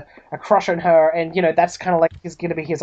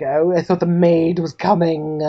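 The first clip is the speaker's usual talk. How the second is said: lightly voiced slow butler; a slow, stuffy servant's voice. Butler at the door expecting a maid, stuffy. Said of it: "stuffy, uh, mustached butler".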